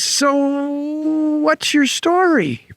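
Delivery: a lightly voiced curious man; curious guy. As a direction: ask the dog, intrigued.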